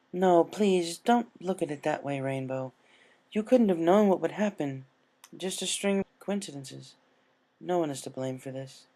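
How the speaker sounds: Princess Luna, reassuring. Acted. Luna reassuring Rainbow it wasn't her fault, gentle. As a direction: soothe her guilt away.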